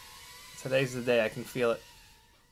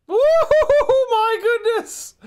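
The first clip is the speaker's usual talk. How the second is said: high, whooping victory cheer; triumphant whoop; 7 dB louder than usual. Real, not acted. Celebrating a win.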